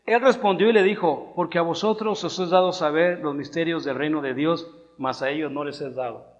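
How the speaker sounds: loud, measured Bible reading; scripture reading. Acted. Preacher reads Matthew to the congregation, firm scripture-reading voice. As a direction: announce and read the verse out firmly.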